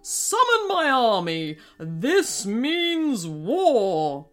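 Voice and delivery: war declaration. Acted. King Krusty declaring war.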